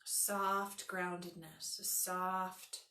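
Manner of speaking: calm, unhurried meditation voice; guided meditation. Acted. Yoga teacher settling students under an imagined weighted blanket, guided meditation. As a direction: guide them gently into rest, letting phrases settle.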